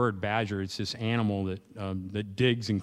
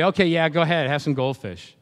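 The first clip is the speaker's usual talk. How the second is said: worn-down parent giving in; 4 semitones higher, 8 dB louder than usual. Retold or imitated.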